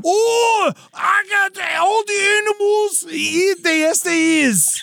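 high, hammed-up posh British voice; British accent. Hammed-up British accent for the friend who asked. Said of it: "You have to read it in a British accent".

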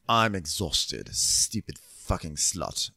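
sluggish, self-insulting grumble; imitating a groggy captain cursing himself; slow mock groggy mutter. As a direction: drag it out, half asleep. Frasier quote, slowed.

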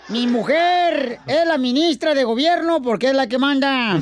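lightly pompous campaign orator; mock politician rallying the crowd; booming balcony speech. Mock candidate speech continues. (discurso de candidato pomposo)

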